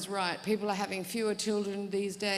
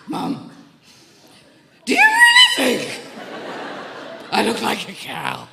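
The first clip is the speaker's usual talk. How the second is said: dismayed plea; 10 semitones higher, 13 dB louder than usual. Retold or imitated. Child upset about cow costume.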